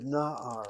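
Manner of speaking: na'ar with a long, strong first syllable; stress on first syllable. Shown as a demonstration. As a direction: lean on the NA of na'ar, then let the end drop. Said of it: "Notice how I say that word".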